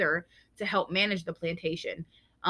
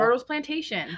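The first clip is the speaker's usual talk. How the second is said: excited reveal; 4 semitones higher than usual. Real, not acted. Triumphant reveal.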